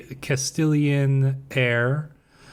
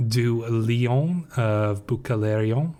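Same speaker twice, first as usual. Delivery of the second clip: put-on slow, light French accent on the name; a hint of a French accent, drawn out; slower than usual. Streamer naming daughter's Byzantine groom, light French accent. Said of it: "I don't know why I said that with a French accent".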